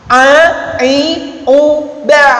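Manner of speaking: "ba" closing on a squeezed throat sound; half-held ain. Shown as a demonstration. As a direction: end "ba" with a brief ain, not fully blocked. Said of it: "dibilang tawassul".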